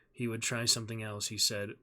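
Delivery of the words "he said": ordinary delivery, nothing marked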